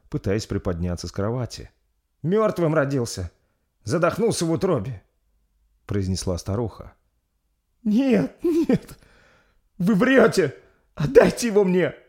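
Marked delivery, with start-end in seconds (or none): 2.2-5.0 put-on blunt old midwife. Old midwife announcing stillbirth. 7.8-11.9 desperate screaming mother. Acted. Mother refusing the stillbirth.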